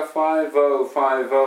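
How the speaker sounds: "ファイブオーファイブオー" linked on one breath, consonants framing vowels; 息を続けて; continuous breath. Shown as a demonstration. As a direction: keep air flowing through "ファイブオーファイブオー". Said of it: "ずっと息が続きながら".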